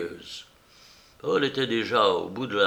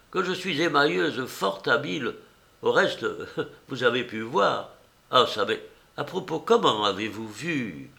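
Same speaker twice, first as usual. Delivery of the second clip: put-on old enameller woman; 3 semitones higher than usual. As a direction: play the coy old artist handing over her card.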